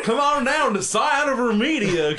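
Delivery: car ad parody. Pretend.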